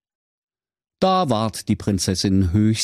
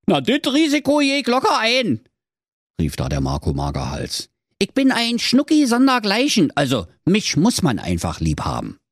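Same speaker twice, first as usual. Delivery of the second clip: high, quick, eager hero voice; eager young hero; 14 semitones higher than usual. Acted. Marco asks the dwarf for an air freshener, high and eager. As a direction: Marco chirps his question fast and high.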